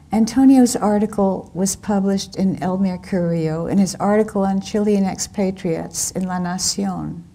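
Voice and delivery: measured literary reading voice; story narration. A narrator's reading. Author reading her novel to an audience, in narration voice. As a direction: read the novel scene to the audience, evenly.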